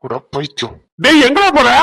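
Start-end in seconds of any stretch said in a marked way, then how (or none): 1.0-1.7 calling out. Acted. Calls after leaving friend.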